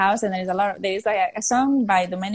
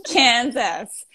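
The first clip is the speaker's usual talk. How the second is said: KANSAS said louder and more deliberately; repeating KANSAS for someone who missed it; 4 dB louder than usual. Retold or imitated. Answering a guy who said "What?", KANSAS repeated louder. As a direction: say KANSAS more firmly for the listener.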